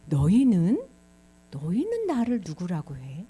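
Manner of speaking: Jesus questioning disciples. Acted. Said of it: "제자들에게 얘기한 거야".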